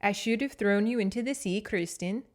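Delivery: lilting mock Scandinavian accent; Rose Nylund accent. Shown as a demonstration. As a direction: try out a folksy Scandinavian accent, rising on the name. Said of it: "very Rosen Island".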